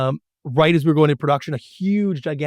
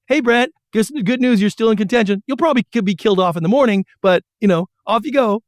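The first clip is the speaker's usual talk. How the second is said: higher, quick breezy boss; 6 semitones higher than usual. Retold or imitated. Publisher telling Brent he may be cut, breezy mock cheer. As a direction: rattle it off like a cheery executioner. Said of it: "it's like The Princess Bride".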